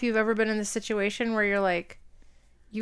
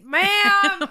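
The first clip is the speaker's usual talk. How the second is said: a sharp higher, louder ma'am with a laugh; mock yell; 10 semitones higher, 6 dB louder than usual. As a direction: cut her off with a bark.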